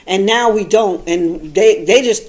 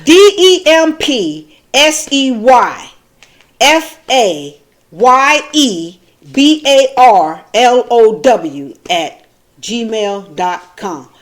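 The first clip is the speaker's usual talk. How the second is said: careful slow letter-by-letter; slow spelling; 2 semitones higher, 5 dB louder, much slower than usual. Shown as a demonstration. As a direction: spell each letter slowly, deliberately.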